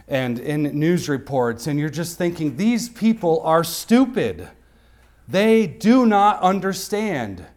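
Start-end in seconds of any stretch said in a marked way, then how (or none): 2.6-7.4 scornful inner thought. Retold or imitated. Mocking what the preacher thinks.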